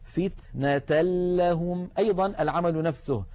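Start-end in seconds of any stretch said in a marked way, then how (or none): 0.0-1.9 فتنة لهم slowed, tanween merged into a doubled lam; slow recitation. Shown as a demonstration. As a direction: recite it with no nasal hum. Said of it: "مثال التنوين".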